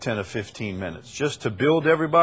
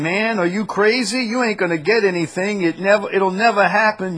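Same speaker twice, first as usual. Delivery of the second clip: higher, hammed-up preacher scolding the congregation; mock the pushy prosperity preacher, louder at the money line; imitating Ed Young preaching; 5 semitones higher, 4 dB louder than usual. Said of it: "He says".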